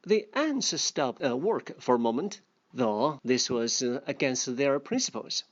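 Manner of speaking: a lightly voiced storybook reading; story reading. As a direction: read the fable aloud to the class. Reading fable aloud to learners.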